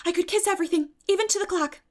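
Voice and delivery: put-on high, loud, gushing girlish delight; delighted Anne. Anne thrilled to find Marilla cooked her supper, high excited girlish voice. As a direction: squeal it out at the broiled chicken.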